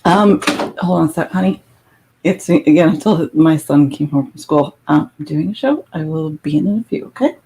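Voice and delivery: turned away, talking off-mic; hand over the phone. Real, not acted. Tells son she's doing a show.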